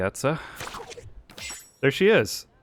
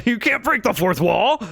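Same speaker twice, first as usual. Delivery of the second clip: laughing; 8 semitones higher, 3 dB louder than usual. Real, not acted. Laughing mock protest.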